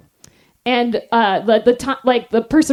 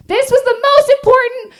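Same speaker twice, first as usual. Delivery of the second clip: mock grave; 11 semitones higher, 3 dB louder than usual. Mock announcing the key task.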